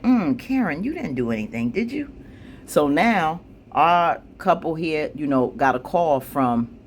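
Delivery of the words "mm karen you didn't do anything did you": knowing mock question.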